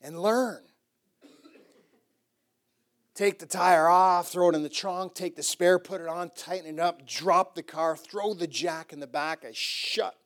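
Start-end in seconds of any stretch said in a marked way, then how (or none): 0.0-0.6 cocky boast. Retold or imitated. Showing off to the boys. 3.1-7.6 brisk narration. Retold or imitated. Fast demo of changing tire.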